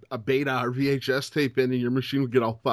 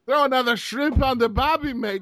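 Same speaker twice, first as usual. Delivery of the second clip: higher, hammed-up Crocodile Dundee English; mock Australian accent; 8 semitones higher, 3 dB louder than usual. Joking about the England pick, a hammed-up Australian-British accent. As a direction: play a bad Aussie trying to be British. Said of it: "English accent by way of Crocodile Dundee".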